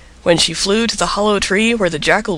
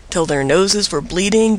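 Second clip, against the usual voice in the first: usual speaking voice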